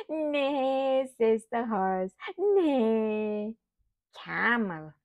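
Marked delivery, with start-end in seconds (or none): 0.1-1.1 drawn-out, higher imitated neigh; horse neigh. Shown as a demonstration. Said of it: "What does a horse say?". 2.4-3.6 long, drawn-out playful neigh; horse neigh. Shown as a demonstration. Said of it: "What does a horse say?".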